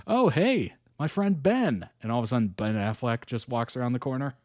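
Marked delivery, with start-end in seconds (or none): 0.1-1.9 hammed-up higher name-drop; mock casual greeting. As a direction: imitate someone casually spotting a famous friend. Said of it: "Could you imagine?".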